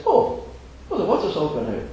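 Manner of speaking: lightly voiced puzzled girl; wee girl. Girl handing back the empty basket, lightly voiced. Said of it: "she says".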